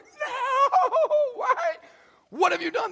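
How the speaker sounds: high, loud panicked cry with a nervous laugh; panicked alarm. Retold or imitated. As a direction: yelp in disbelief and dread. Brother panics over returned money.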